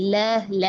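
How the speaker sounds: ल, ल as light "le, le"; spread thin lam. Shown as a demonstration. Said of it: "थोड़ा सा फैलाएं".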